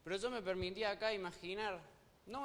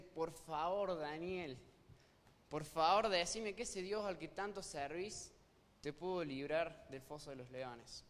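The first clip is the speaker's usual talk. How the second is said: hopeful plea; slower than usual. Pretend. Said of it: "con un poquitito de esperanza tal vez dice".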